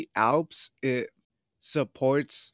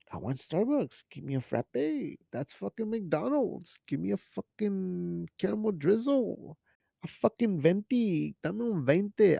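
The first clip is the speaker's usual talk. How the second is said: lightly put-on demanding coffee order, swooping pitch; mock young customer; 5 semitones higher than usual. Host imitating the young crowd ordering at Starbucks, lightly mocking.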